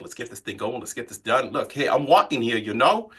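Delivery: quick-fire New York patter; lightly put-on New York accent; New York cadence. Shown as a demonstration. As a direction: rattle it off like an impatient New Yorker. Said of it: "a little bit faster from, like, New York".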